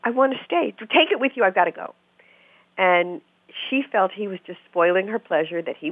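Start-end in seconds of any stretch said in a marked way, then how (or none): 0.0-1.9 put-on higher whiny girlfriend. Girlfriend refusing to leave her cappuccino, higher and plaintive. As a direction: pitch it up, a plaintive protest. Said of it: "she was like".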